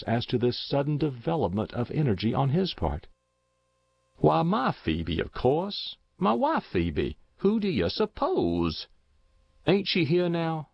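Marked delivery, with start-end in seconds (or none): 4.2-10.7 put-on high-pitched, insistent old husband; agitated rustic old man, pitched up throughout; insistent old farmer. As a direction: insist on it as a confused old countryman. Voices insistent deluded husband.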